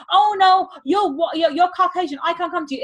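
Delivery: money as a character refusing you, hammed up; mock refusing money. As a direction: play money saying no in a silly voice. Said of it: "It doesn't say".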